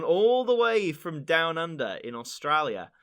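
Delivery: lightly put-on Aussie accent, drawn out; a hint of hammed-up Australian accent; terrible Australian accent. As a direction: draw it out in a bad attempt at an Australian accent. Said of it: "That was probably a terrible accent".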